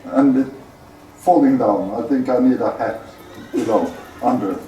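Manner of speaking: muffled echo inside a helm; speaking from inside a metal helmet. Real, not acted. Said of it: "Yes, it's an echo".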